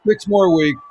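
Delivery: loud, high excited repeat. Real, not acted. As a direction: call it out with excitement. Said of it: "I predicted that beforehand".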